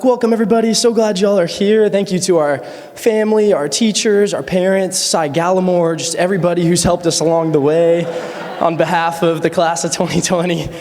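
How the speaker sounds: welcome speech. Retold or imitated. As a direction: address a big crowd, listing the thank yous. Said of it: "my welcome speech".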